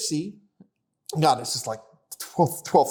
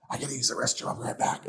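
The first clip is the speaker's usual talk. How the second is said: quiet excuse; 8 semitones lower, 8 dB quieter, faster than usual. Retold or imitated. Sneaking away from date.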